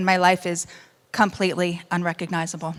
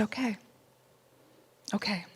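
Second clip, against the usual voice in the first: barely voiced, much softer; whispered okay; 11 dB quieter than usual. Real, not acted. Wife quietly accepting her husband's words in a whisper. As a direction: let it out almost without voice.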